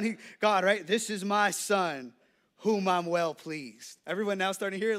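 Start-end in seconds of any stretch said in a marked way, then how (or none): 0.8-4.0 slow, lightly voiced God from heaven; hint of a grand, unhurried divine voice; Morgan Freeman. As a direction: draw it out slowly as God speaking. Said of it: "it sounds like Morgan Freeman".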